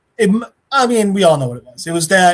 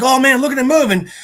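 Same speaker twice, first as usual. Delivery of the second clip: imitated amazed henchmen; 8 semitones higher, 4 dB louder, faster than usual. Henchmen marvel at Spider-Man.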